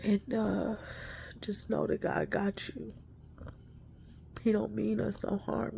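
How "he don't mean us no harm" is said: softer reassuring whisper; hushed comfort. Real, not acted.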